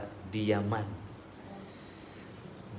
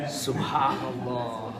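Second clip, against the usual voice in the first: Subhanallah drawn out slowly and calmly; much slower than usual. Shown as a demonstration. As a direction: answer the tempter slowly, unbothered. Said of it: "Gimana jawabnya?".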